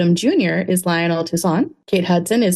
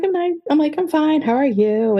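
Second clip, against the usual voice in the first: flustered fangirl; 8 semitones higher than usual. Retold or imitated. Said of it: "I was like".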